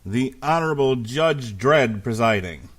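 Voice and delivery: loud formal court announcement; bailiff. Acted. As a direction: call the court to order like a bailiff. Mock courtroom opening announcement.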